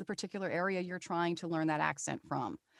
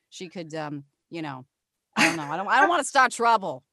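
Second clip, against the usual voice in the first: gossipy British niece, hesitating over a secret; improvised character voice; 6 dB louder than usual. Acted. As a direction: play it loud at first, then reluctant to tell. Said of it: "See, that was all improv".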